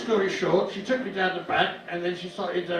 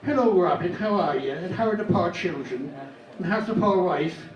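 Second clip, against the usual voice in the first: Irish mum. Retold or imitated. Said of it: "She was Irish".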